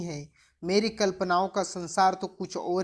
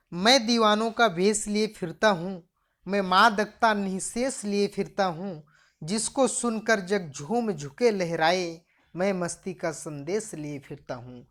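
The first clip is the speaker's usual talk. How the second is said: poem recitation. Acted. Teacher reciting the poem's next lines, measured poem recitation. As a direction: recite line by line with pauses.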